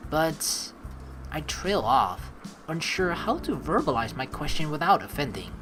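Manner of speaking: measured story-reading voice; story narration. Acted. Player narrates a visual novel to viewers, story narration. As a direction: read the game's text out like a narrator. Reads game text aloud.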